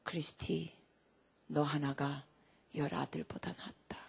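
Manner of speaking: low, soft imitation of dad; father's heartfelt praise. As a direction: quote father quietly, with pauses. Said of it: "저한테 아버님이 이래요". (아버지를 흉내 낸 낮고 나직한 칭찬)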